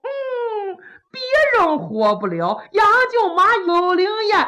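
deadpan mischief; playful official. Acted.

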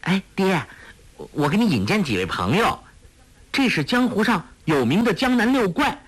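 high, quick, eager daughter's voice; bubbly introduction to her father; playful girl. A narrator's reading. Daughter introducing friends to her father, high and playful. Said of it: "黄蓉伸了伸舌头".

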